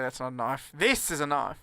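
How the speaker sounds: mock Aussie film catchphrase; Crocodile Dundee. Comic correcting the catchphrase, hammed-up Aussie impression. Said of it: "you can never say that sensibly".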